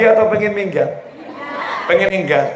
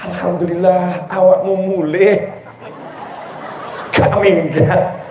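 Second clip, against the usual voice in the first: laughing relief; slower than usual. Acted. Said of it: "wife answers husband".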